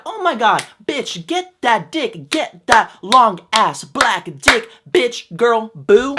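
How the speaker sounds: slow, loud, drawn-out sassy friend voice; annoying friend impression. Mocking the heroine's loud friend from the movie, slow and brassy. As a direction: ham up the obnoxious best friend. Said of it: "So they kinda sound like this when they talk".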